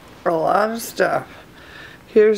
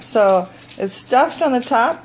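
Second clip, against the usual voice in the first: ordinary delivery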